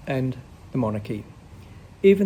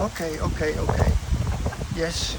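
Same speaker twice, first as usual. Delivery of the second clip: resigned patient; 4 semitones higher than usual. Acted. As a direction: give in wearily.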